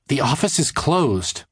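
stern. A narrator's reading. Cartoonist turning away a late visitor, mildly stern. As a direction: lay down the rule, slowly and firmly. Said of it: "Josephine told him sternly".

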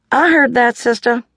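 Mama rebuking her daughter for muttering; Mama's rebuke. A narrator's reading. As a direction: catch her out and scold.

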